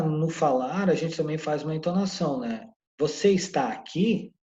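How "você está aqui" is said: slow question with a doubting lift on "aqui"; questioning intonation. Shown as a demonstration. Teacher demonstrating spoken questions, "aqui" lifted in a doubting tone. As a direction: let "aqui" rise at the end as if in doubt. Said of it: "Essa entonação, esse tom no final de dúvida".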